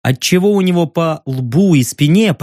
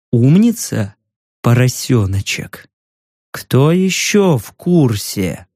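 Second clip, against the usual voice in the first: mocking menace; 5 semitones lower, slower than usual. Menacing interrogator mocking victim.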